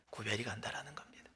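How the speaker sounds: soft, unvoiced whisper. Real, not acted. Preacher whispering the point to the congregation. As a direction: drop to a breath on the conclusion.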